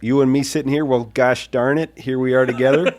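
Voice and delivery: light, folksy Minnesota accent. Shown as a demonstration. Host demonstrates Minnesota accent for co-host, lightly done. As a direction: try a gentle Minnesota accent. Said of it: "Is that a Minnesota accent?".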